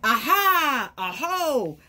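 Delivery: high, loud discovery cry; excited aha. Acted. Reading to the kids as they spot new tracks, excited. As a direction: announce the find with delight.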